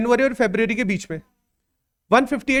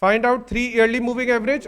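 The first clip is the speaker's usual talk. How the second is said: very slow, word by word; teacher dictating homework; slow dictation; much slower than usual. Shown as a demonstration. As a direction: dictate each word for copying. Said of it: "मैं question लिखवा देता हूं".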